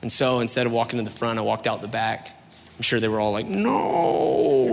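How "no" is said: high, loud hammed-up cry of dismay; mock anguished wail. Peeking Christians watching Reed leave, hammed-up cry of dismay. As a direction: wail like fans losing a game.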